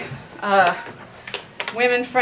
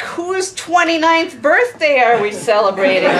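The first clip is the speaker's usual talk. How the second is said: laying it on thick; 3 semitones higher, 4 dB louder than usual. Acted. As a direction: flatter the table with mock curiosity. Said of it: "the waiter lays it on thick".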